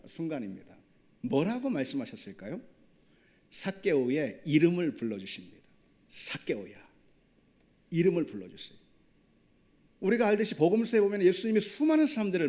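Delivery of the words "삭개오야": a low, gentle call of his name, 삭개오야; tender calling. Pretend. Jesus calls the lonely tax collector by name, low and tender. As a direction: call 삭개오야 softly, as if reaching out to him.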